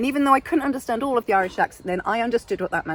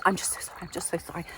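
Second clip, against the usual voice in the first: hushed, meek mock apology; fading, self-effacing murmur; apology mode; 5 semitones lower, 12 dB quieter, much faster than usual. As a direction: shrink into a tiny, breath-only apology. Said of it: "this kind of apology mode".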